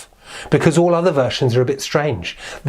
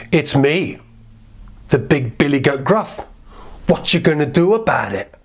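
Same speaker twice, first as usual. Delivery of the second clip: big billy goat. Acted. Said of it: "the big billy goat Gruff said".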